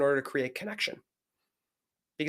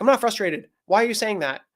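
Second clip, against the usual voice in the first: higher, mildly defensive retort; 5 semitones higher than usual. Retold or imitated. Wife correcting her husband's reading of her, mock defensive. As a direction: imitate a wife pushing back.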